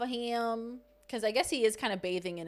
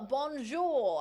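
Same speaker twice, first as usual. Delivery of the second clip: French greeting; 2 semitones higher than usual. Shown as a demonstration. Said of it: "I don't know why I went French".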